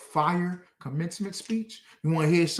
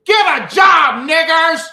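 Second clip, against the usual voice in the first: high, loud slow shout of a sneering white passerby; mock racist heckler; 10 semitones higher, 15 dB louder, slower than usual. Preacher imitating a white passerby yelling at him, loud mocking shout. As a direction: bark it like a street heckler. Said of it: "a white person walks by and goes".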